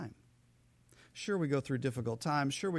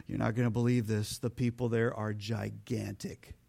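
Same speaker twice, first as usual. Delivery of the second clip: low, hushed, awed report; a mild, hushed fear of giants; scared spies; 5 semitones lower than usual. Acted. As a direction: report it low and wide-eyed. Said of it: "the spies came back and they said".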